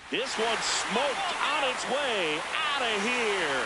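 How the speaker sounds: slow, stretched-out call of a homer; excited home run call. Real, not acted. Play-by-play announcer to fans as a ball leaves, excited.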